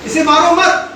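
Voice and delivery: "इसे मारो मत" run together as one phrase; pause after मत. Shown as a demonstration. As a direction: join मत onto "इसे मारो" without a break. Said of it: "कहने का फर्क, शब्द वही है".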